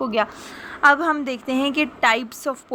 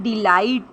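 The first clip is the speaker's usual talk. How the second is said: "डिलाइट" with a long, weighted "लाइट"; short "डि", drawn-out stressed "लाइट"; stress on second syllable; slower than usual. Shown as a demonstration. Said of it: "लाइट पे आवाज़ भी ऊंची पड़ रही है".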